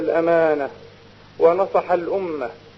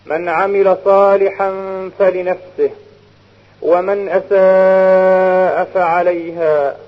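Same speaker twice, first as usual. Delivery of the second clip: formal standard arabic. Retold or imitated. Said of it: "لقوله سبحانه وتعالى".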